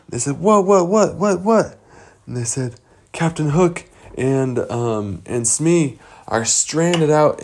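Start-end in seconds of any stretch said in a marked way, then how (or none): 0.4-1.8 high, rapid-fire startled questioning. Acted. Boys answering Peter Pan's sudden alarm, startled.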